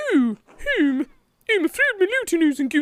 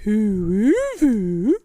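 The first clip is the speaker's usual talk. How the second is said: sly drawl; 7 semitones lower, much slower than usual. Acted. Drawn-out sly however.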